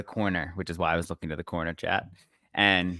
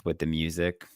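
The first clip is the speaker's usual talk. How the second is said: lightly voiced, slow ad read; commercial parody; 4 dB quieter, slower than usual. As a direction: draw it out like a mock commercial. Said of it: "All those commercials".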